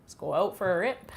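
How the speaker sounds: playfully exaggerated Canadian accent; strong Canadian accent. Shown as a demonstration. Streamer giving chat another slang sample, strong Canadian accent. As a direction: put on a real Canadian accent. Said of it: "that's, like, a real Canadian accent".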